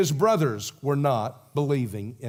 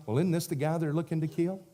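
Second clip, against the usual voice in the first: whining mutter; 7 dB quieter, faster than usual. Retold or imitated. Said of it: "they're whining".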